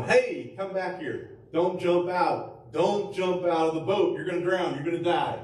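high, pleading warning to Peter; mild mock panic from the boat; worried friends shouting. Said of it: "his friends were probably going".

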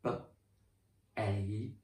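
B-ache split, long a sound stretched; teacher sounding out the new word. Shown as a demonstration. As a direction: segment B-ache for the class. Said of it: "if we put an E at the end".

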